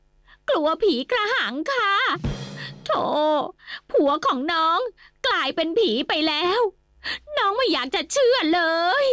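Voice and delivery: tearful wailing. Acted. Scared wife cries to her brother about her husband. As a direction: whimper through comic tears.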